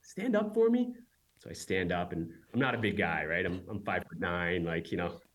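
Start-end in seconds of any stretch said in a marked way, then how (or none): 0.0-0.9 high, brisk order from the boss; commanding interviewer. Retold or imitated. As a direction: bark it like a sizing-up interviewer. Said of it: "She just goes".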